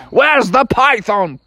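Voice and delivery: high, drawn-out hunting cry; battling father. Acted. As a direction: holler it slowly while on the rampage. Father hunting python, swinging bat.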